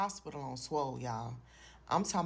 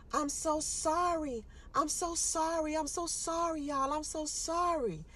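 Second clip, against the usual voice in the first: high, slow sobbing apology; bawling apology; 9 semitones higher, slower than usual. Retold or imitated. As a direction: sob it out to your family. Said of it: "I just started bawling".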